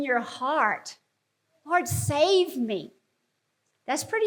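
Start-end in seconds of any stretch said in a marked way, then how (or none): 1.6-2.9 desperate plea. Shown as a demonstration. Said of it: "crying desperately".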